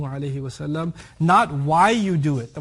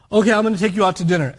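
grudging offer; 2 semitones higher, 5 dB louder, much faster than usual. Retold or imitated. Grudging spouse acted.

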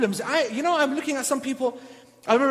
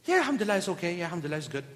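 reluctant reply; 5 semitones lower, 7 dB quieter, much faster than usual. Retold or imitated. Brother answering again, reluctant.

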